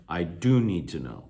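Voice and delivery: "do" emphasized, then falling away; stress on DO. Shown as a demonstration. Teacher repeating the example, emphasis on "do". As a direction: hit the helping verb "do". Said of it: "provides emphasis to the sentence".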